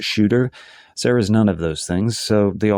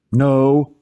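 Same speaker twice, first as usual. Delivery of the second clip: short, raised, higher refusal; yelling back; 6 semitones higher, 5 dB louder than usual. A narrator's reading. Niece storming out on her uncle, yelling back. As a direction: yell it back over your shoulder. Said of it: "she yells over her shoulder".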